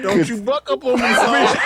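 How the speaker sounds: put-on rowdy Southern hillbilly accent. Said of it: "Why you gotta have that accent".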